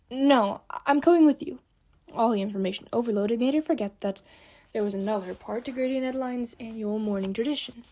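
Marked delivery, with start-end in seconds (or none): 0.1-1.6 urgent. Acted. Sophie insists on coming along.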